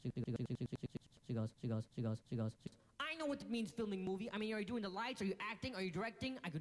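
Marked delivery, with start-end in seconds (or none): 3.0-6.4 put-on Eastern European accent. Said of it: "the Eastern European customs lady".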